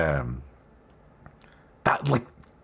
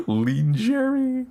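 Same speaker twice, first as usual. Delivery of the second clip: laughing; much slower than usual. Shown as a demonstration. Laughing misreading.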